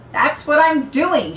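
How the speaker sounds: snappy retort. Acted. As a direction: bite back at him. Parvana arguing in stalled car.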